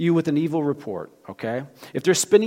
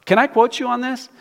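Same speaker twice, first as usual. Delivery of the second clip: higher and louder, pressing the question; loud emphatic repeat; 10 semitones higher, 7 dB louder than usual. Shown as a demonstration. Pastor demonstrating how to challenge a gossiper, loud and pointed. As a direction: push it hard the second time. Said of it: "I'll say".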